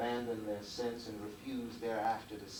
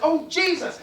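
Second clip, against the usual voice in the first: angels gasping; 10 dB louder than usual. Acted. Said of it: "The angel said".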